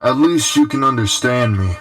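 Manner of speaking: hollow, like down a tunnel; tin can phone. Acted. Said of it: "it sounds like you're talking into a, a can or something".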